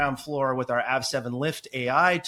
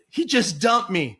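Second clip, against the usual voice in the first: slow, higher-pitched imitated wail; mock tearful customer; 5 semitones higher, 4 dB louder, slower than usual. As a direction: draw it out as a jilted caller, half laughing. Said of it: "she's in tears crying".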